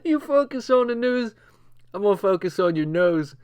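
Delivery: quoting the comeback again. Retold or imitated. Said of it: "The guy said".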